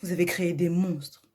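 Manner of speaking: mildly heated, accusing speech; indignant Alia. Acted. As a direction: confront the teacher with pointed emphasis. Plays Alia confronting the teacher. (indignée, sur un ton de reproche)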